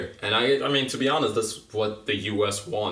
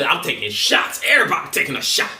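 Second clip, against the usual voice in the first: mock Trump boasting; 6 semitones higher, 4 dB louder than usual. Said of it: "Trump don't hold back".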